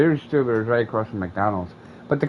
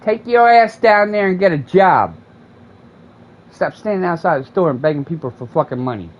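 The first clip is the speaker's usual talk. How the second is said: raised, higher scolding at a beggar; mock yell; 5 semitones higher, 4 dB louder than usual. To the panhandler outside the store, a loud scolding. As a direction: bark it like telling off a bum.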